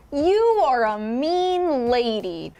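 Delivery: slow, deadpan movie-hero delivery; mock Will Smith line. Mocking the trailer line, slow deadpan hero voice. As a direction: drag it out like a stiff action hero. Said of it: "Will Smith kept going".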